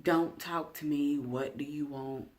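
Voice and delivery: mock short-tempered attitude, firm first words; snappy attitude. Speaker shows how short she gets with family, mild attitude. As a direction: act out being mean and short, lightly. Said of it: "Have an attitude".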